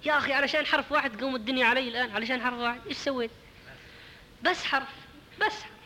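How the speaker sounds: mock-aggrieved "what did I do?"; indignant protest. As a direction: protest it as if it's no big deal. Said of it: "قال".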